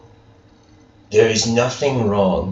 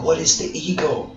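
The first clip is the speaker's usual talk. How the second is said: higher-pitched, lightly voiced seeker; a hint of a puzzled pupil; questioning student; 5 semitones higher than usual. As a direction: plead for an answer in a higher voice. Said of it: "the student asked".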